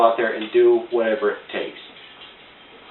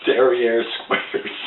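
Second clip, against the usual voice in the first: drawn out; much slower than usual. Acted. Mock fancy product name joke.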